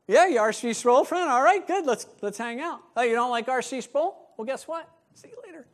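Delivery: snobby mock test of friends; smug name-dropper. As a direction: judge each person by their favourite preacher. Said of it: "I used to name drop".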